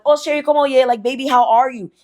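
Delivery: high, sugary mock-sweet greeting; imitating a sweet-talking woman at the car window. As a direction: coo it like an innocent sweetheart. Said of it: "she knocks on the door like".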